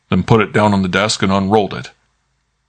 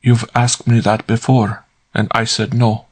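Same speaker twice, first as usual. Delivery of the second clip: clear and steady; 3 semitones higher than usual. A narrator's reading. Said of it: "in a good, clear voice".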